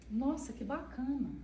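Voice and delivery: same level tune on "Nossa, que bacana", no lift; flat monotone. Shown as a demonstration. Autistic mother showing her flat tone on happy news, monotone. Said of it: "Com o mesmo tom".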